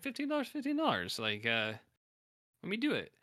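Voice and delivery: high, pleading offer; beg, pushing the price up high; high desperate haggling; desperate plea. Retold or imitated. Walt begging with money.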